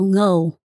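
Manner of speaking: Ngo with the Vietnamese initial NG sound; Vietnamese surname. Shown as a demonstration. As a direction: start Ngo on a nasal NG. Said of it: "not a lot of people can pronounce my last name".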